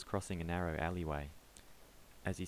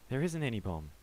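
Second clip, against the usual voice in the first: panicked insistence; 6 semitones higher, 5 dB louder than usual. Acted.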